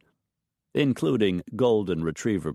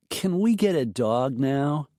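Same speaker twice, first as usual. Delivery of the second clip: put-on high eager child asking; pleading young kid, wide-eyed; little girl voice; 7 semitones higher than usual. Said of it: "Madison was asking for the umpteenth time".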